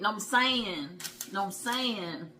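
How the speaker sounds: mock catchphrase, tossed off lightly; a light parody of the old friend; imitating his friend's catchphrase. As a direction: do the friend's verbal tic as a family joke. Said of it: "we always say it like he did".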